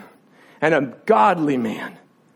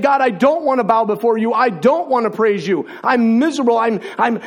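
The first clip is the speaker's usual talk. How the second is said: raised, higher-pitched desperate protest; anguished yelling; 4 semitones higher than usual. Retold or imitated. Preacher re-enacting his protest to God, anguished yelling. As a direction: build in distress until the words break down. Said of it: "crying, yelling, saying".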